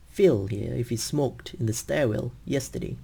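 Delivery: "Phil", "smoked", "stairwell", "yesterday" long, small words squeezed in between; stress-timed rhythm. Shown as a demonstration. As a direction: pulse on the stressed words, rush the rest. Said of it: "these words are stressed".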